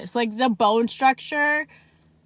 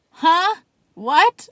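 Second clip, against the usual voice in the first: baffled; 8 semitones higher, 9 dB louder than usual. Retold or imitated. Confused by blacklisted car claim.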